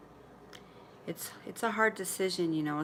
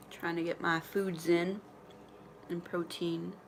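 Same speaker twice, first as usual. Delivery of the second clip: mouth full; 4 dB quieter than usual. Real, not acted. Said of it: "Sorry, I'll be talking with my mouth full".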